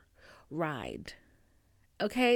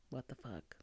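soft breathless whisper; stunned whisper; 7 semitones lower, 14 dB quieter than usual. Retold or imitated. Hearing the Highlander is broken, stunned whisper. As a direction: barely breathe the disbelief. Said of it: "And I'm like".

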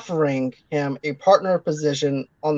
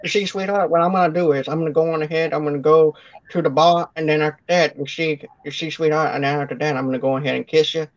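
James Cagney impression; faster than usual. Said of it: "That's our impression of James Cagney".

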